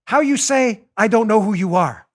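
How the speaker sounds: lightly put-on Spanish accent; mock Spanish accent. Host imagines her first line to Baldwin, mock Spanish accent. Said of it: "probably in a Spanish accent".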